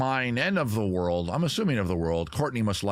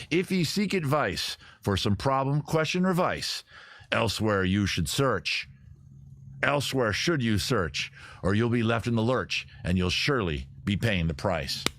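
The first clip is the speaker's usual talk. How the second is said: half-hearted sea-dog recital; pirate voice. Acted. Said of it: "Let me read that again".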